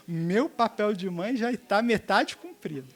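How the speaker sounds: slow, laughing self-satisfied mom; smug laughing mother. Retold or imitated. Mother laughs to herself, pleased with her lecture. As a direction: chuckle proudly at your own parenting. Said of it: "eu eduquei essa alma".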